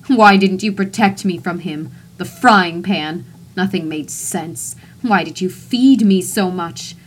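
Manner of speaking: put-on loud, coarse southern accent accusing her son; coarse southern tongue. Mother's ghost accuses her son in a loud southern accent. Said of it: "speaking in a coarse southern tongue".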